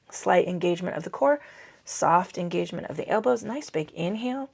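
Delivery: heavy breathing between words; out of breath, audible breaths. Real, not acted. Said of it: "Sorry, I'm breathing heavy".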